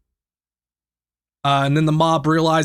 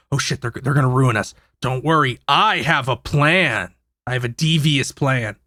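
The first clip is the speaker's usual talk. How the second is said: lightly voiced villain, low and hushed, plotting; a hint of a cartoon baddie hatching a plan; low-voiced mock villain muttering his scheme; scheming villain; 5 semitones lower than usual. Villain scheming in retold scene.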